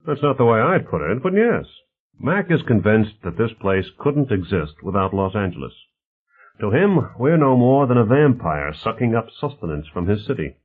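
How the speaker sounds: lively, mildly voiced character dialogue; affable host Bonner. Bonner talks politics with his guests, lightly voiced affable host.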